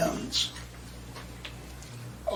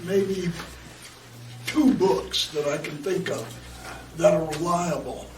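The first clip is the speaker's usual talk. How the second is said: raspy, strained, worn-out voice; hoarse voice; 4 dB quieter than usual. Real, not acted. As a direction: speak through a hoarse throat. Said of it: "I know I sound like Donald Duck".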